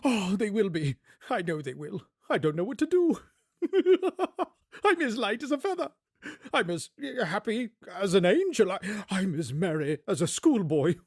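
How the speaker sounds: high, laughing, breathless joy; giddy Scrooge. Acted. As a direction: bubble over like a delighted child.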